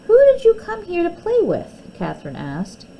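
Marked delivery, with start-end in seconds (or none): 0.1-1.8 higher, louder jealous challenge; a child's hurt accusation, voiced high and loud; indignant demand. Catherine confronts Molly angrily.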